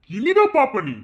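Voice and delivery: high, loud menacing call; triumphant warning; gloating threat. Acted. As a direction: promise revenge loudly.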